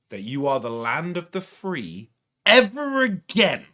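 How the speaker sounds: heated rant; angry emphasis. Real, not acted. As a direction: build the line into a heated jab.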